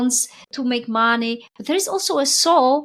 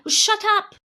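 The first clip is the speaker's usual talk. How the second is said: irritated swearing; 5 semitones higher than usual. Retold or imitated. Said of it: "really swearing at it".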